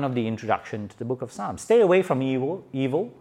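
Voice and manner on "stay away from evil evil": evil repeated, high and loud; loud, high warning on evil; emphatic warning. Acted. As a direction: press the warning hard. Preaching the warning.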